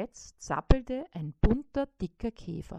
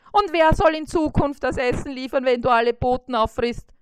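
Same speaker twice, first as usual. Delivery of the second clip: higher, louder, fast questioning fly; exasperated fly; 5 semitones higher, 7 dB louder, faster than usual. A narrator's reading. Fly challenging the spider, fast high voice. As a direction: fire the question off quickly. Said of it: "fragte Bissi".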